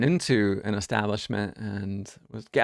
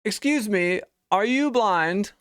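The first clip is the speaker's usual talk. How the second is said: higher, slow and loud, over-articulated; loud question; 10 semitones higher, slower than usual. Retold or imitated. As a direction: call it out loudly like to someone deaf. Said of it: "asked me very loudly".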